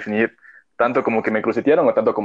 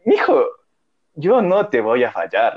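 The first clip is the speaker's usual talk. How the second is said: earnest promise; 4 semitones higher, slower than usual. Retold or imitated. Acting out friend's earnest promise.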